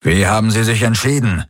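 a touch of urgency in the question; mildly insistent; pressing. Acted. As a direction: lean on him for an answer. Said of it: "drängte Daraios".

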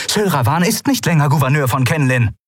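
determined officer reading out demands; Kalin's voice. Acted. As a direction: speak up with formal, measured resolve. Kalin continues.

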